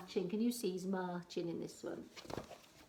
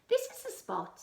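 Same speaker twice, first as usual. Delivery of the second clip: pirate captain; 6 dB louder than usual. Acted.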